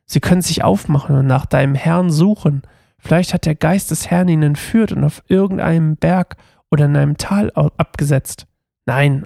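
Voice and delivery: measured story narration from the page; scripture reading aloud. A narrator's reading. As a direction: read it out as a Bible story, lightly voicing the quotes. Reads Bible passage aloud. (biblische Geschichte vorlesen)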